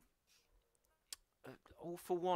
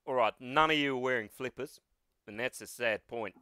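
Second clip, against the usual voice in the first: broad Australian deadpan; a touch of Aussie lecturer; heavy Australian accent; 3 semitones lower than usual. Acted. All Might addressing his class, heavy Australian accent. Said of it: "Heavy Australian".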